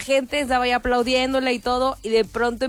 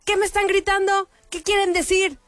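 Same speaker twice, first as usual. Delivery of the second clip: higher questioning tone; puzzled singer asking; 8 semitones higher than usual. Retold or imitated. Singer asking a stage worker what the crowd means. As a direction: lightly play the confused star. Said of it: "le pregunta a uno".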